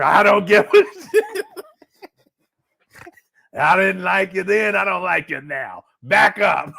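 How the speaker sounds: slow loud laughing granny threat; loud stern granny. Retold or imitated. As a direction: bark it slow through a laugh. Granny rejects granddaughter.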